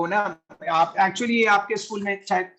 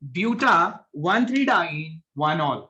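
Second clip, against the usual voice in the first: slow model answer; much slower than usual. Shown as a demonstration. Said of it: "on that basis इसका नाम क्या होगा".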